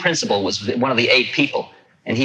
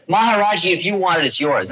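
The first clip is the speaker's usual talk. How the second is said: put-on young devotee; 7 semitones higher than usual. Young fellow quoted.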